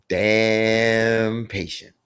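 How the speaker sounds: gummy mumble without teeth; slow toothless drawl. Pretend. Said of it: "let me take my teeth out".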